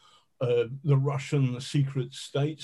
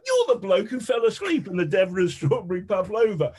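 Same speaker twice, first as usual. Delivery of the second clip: higher-pitched, lightly acted disbelief; mock incredulous accusation; 6 semitones higher than usual. Colleague recognises the pavlova sleeper in danger, mock incredulity. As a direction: imitate someone pointing out the culprit, pitched up.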